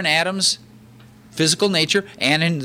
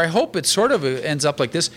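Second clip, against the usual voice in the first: loosely hopeful, noncommittal hedge; mock doubtful. Preacher mimicking doubt that Paul lacks, mock doubtful. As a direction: imitate someone unsure of the outcome. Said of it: "There's no doubt here. There's no".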